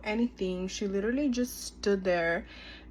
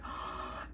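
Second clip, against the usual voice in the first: imitated gasp; 12 dB quieter than usual. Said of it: "And she was like".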